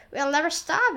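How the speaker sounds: mild excited shout. A narrator's reading. An aunt shouts as the peach keeps growing, mild shout. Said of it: "and Spike shouted".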